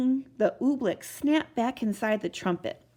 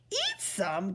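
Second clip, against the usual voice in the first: gasping; 4 dB quieter than usual. A narrator's reading. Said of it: "gasped Bartholomew".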